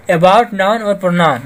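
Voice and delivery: very slow, spaced words; slow reading of a definition; slow dictation. Shown as a demonstration. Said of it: "teacher continues definition".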